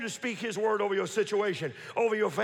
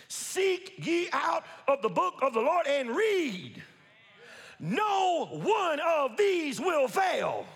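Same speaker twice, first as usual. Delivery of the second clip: "Seek ye out of the book of the Lord and read" drawn out slowly, word by word; slow emphatic reading; 3 semitones higher, much slower than usual. Shown as a demonstration. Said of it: "repeated slower".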